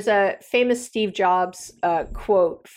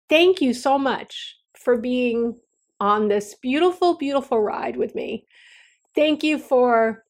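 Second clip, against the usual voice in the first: slow, higher, choked-up gratitude; tearful thanks; 4 semitones higher than usual. Real, not acted. Host thanking listeners at the final episode, holding back tears. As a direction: thank them while fighting back tears. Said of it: "now I'm gonna cry anyway".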